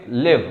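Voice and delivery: लिव drawn out slowly with a short i; slow demo of लिव, short vowel; short i live, slowly. Shown as a demonstration. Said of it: "लेकिन इसका pronunciation क्या है?". (धीरे से लिव, छोटी इ)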